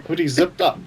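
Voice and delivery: laughing it out in disbelief; can't believe it, laughing. Real, not acted.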